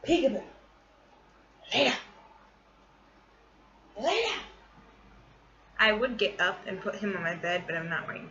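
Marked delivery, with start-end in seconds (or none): 0.1-4.4 high, cooing voice to the dog; sweet pet voice; pet talk. Real, not acted. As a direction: coax the pet to lie down. Talking to her pet.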